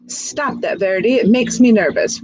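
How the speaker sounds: fussy, nervous complaint; complaining. Acted. Snake complains to the fidgeting young snake, mildly annoyed. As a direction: snap at him to stop fidgeting. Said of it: "Ribbons complained".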